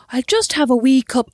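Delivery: lightly mocked attempt at Irish; imitated Irish accent. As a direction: put on a playful Irish accent. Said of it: "Do an Irish accent".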